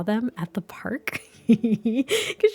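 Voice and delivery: conspiratorial whisper, slow. Real, not acted. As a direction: lean in and whisper the gossip. Gossipy suspicion about nosy Piper.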